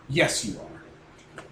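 slow, drawn-out ghost voice; slow haunting ghost reply. Acted. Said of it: "I'm going to talk like the ghost".

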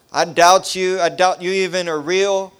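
defiant cursing. Retold or imitated. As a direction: spit your doubt at God. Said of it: "I started cursing at God".

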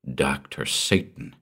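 slow, low and grim; hard and grim. Acted. Detective recognising his old enemy, slow and grim. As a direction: let the name land hard and slow. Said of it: "a hard, relentless glint".

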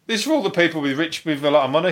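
talking through hiccups; hiccuping mid sentence. Real, not acted. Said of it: "I got the hiccups".

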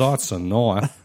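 slow mock Australian accent. Quoting Crocodile Dundee to a friend, in an Australian accent. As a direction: drag out knife like an Aussie. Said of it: "trying to do an Australian accent".

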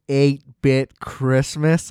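very slow "Eight-bit Christmas?" drawn out with a rising sneer; disgusted. Shown as a demonstration. Podcast host saying a movie title he hates, slow and sneering. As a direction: stretch "Eight-bit Christmas?" slowly, dripping contempt. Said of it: "It's really irritating to me".

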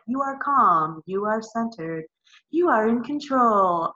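calm slow soothing recording voice; mock the gentle birth-track voice; soothing hypnosis track. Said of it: "my Hypnobabies track ... was like".

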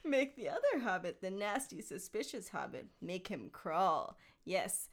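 a hint of scheming Gollum, theatrical; understated stagey creature voice; lightly voiced theatrical Gollum. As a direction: read it as a mildly theatrical Gollum. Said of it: "a theatrical voice".

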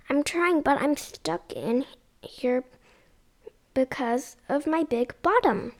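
shouting back. Acted. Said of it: "Bear shouted right back, loud and clear".

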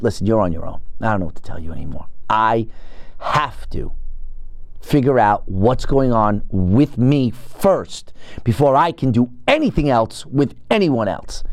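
level with your partner gently. Retold or imitated. Telling Red he must focus.

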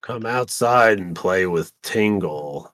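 creepy clown lure. Retold or imitated.

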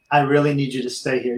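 a lightly voiced gentle doctor; softly imitating the doctor's calm plea; doctor gently urging the patient to stay, soft and calm. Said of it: "he was so gentle".

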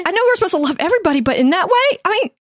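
high-pitched incredulous mock whine. Co-host teasing the just-married weeping wife, high mock whine. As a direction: squeal it high in comic protest.

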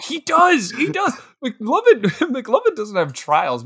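high, loud gushing through laughter; real giddy, emphatic hype; excited agreement. Real, not acted. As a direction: cheer for your favorite character, pitch leaping up. Fan excitedly agreeing about McLovin.

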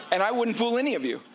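high, bright laugh through words. Real, not acted. Laughing after faking calm for listeners. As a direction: laughs it off, caught out. Laughs at own fake denial.

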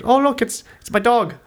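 very high-pitched mock delight; put-on gleeful squeal of welcome; delighted dog owner. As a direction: coo proudly, imitating a host. Host showing off her dog.

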